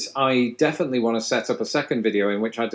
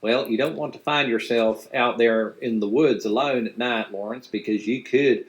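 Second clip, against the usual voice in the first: Appalachian. Retold or imitated. Mimics West Virginia mountain speech.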